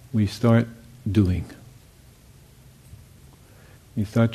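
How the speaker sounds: calm, unhurried guiding voice with long pauses; guided meditation. Real, not acted. Teacher guiding meditators into listening to sounds and silence, calm meditation voice. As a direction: lead them gently, leaving long silences between phrases.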